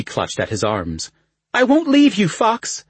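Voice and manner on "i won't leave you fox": desperate plea. Acted. Princess clutching his arms.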